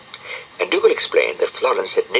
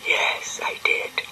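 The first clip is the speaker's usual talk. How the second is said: meek whisper; 6 dB quieter, slower than usual. Acted. Penelope confesses.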